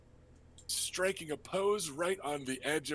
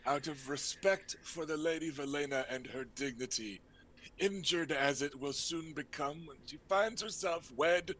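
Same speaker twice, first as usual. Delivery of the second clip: lightly raised, breezy uncle voice; flamboyant uncle. Acted. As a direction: play the charming rogue host.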